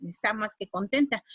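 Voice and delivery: lightly voiced onlooker; listener's retort. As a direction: mutter the listener's verdict. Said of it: "obviamente decía".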